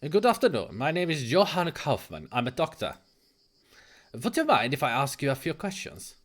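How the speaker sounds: lightly voiced German doctor, polite. Doctor introducing himself to a patient, polite light German accent.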